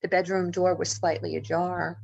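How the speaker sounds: usual speaking voice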